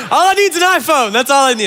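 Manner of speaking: high voiced iPhone wanting; mock gadget craver. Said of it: "people that were like".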